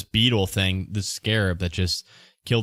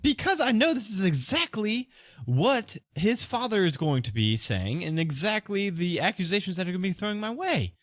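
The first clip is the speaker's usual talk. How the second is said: high-pitched, worried merchant urging haste; anxious shop owner in a raised pitch; flustered accused merchant; 9 semitones higher, 4 dB quieter than usual. Acted. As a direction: give in, then fret rapidly about the consequences.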